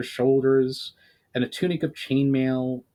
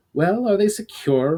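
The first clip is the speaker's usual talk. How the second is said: higher, louder commanding woman; brisk commander; 8 semitones higher, 5 dB louder than usual. Acted. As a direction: check the prisoners briskly. Commander checks on prisoners.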